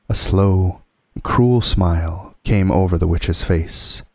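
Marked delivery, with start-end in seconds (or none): none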